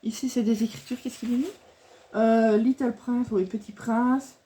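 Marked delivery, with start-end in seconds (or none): 2.1-3.3 bad English accent. Real, not acted. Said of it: "mon accent est pourri".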